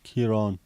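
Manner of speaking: Kieran with the second syllable drawn out to "awn"; long A in Kieran. Shown as a demonstration. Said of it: "does that mean it's extended".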